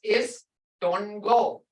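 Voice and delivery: "Istungo" at half speed; sounds shown slowly. Shown as a demonstration. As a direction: draw out each sound of "Istungo". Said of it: "All this was in your sounds".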